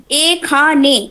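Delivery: "এ খানে" slowly, syllable by syllable; sounding out. Shown as a demonstration. Teacher reading back the spelled word, sounding out. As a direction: stretch "এ খানে" into separate, slow syllables. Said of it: "এর উচ্চারণ সবসময় ই হবে".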